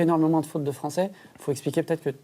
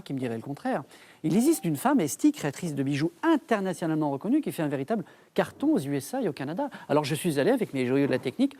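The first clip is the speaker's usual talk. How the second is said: ironic TV reporter voiceover. Acted. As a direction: sell the piece like a glossy TV report. Reporter voiceover introducing the segment.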